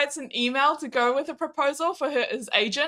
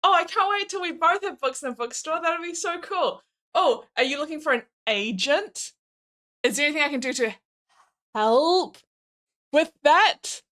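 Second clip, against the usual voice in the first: sweet supportive partner; 3 semitones higher than usual. Retold or imitated. Acting sweet helpful partner.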